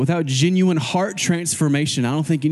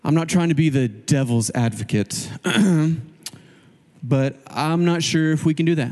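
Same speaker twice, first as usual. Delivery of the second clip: a hint of a grumbling objector, pitched down; grumbler; 2 semitones lower than usual. Grumbler objecting to the pastor in a team meeting, lightly grumbling. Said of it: "I had a grumbler in the group".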